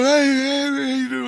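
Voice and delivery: high, loud cheery greeting; friends greeting. Retold or imitated. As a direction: hail him like old pals. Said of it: "they go".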